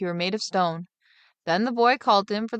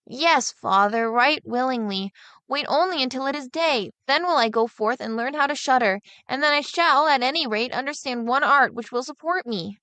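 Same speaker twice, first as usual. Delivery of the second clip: put-on higher, lightly puzzled boy's voice; boy mocking what others always say, higher and puzzled; simple younger son; 5 semitones higher than usual. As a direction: play the naive lad wondering aloud.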